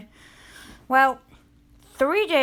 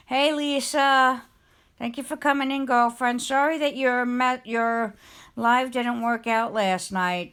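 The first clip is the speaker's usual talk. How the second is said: bright host greeting; 5 semitones higher, 3 dB louder than usual. Real, not acted. Host welcoming Lisa after her failed meetup, warmly excited.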